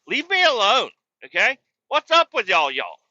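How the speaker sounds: high, loud mock complaint; fed-up outburst. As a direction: yell a high-pitched, hammed-up protest. Acted plea to be left alone.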